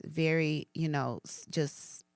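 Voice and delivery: soft, hushed, calm invitation; gentle voice of God. Retold or imitated. Telling herself what God said, softly and tenderly. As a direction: speak it like a gentle loving voice. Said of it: "God was telling me".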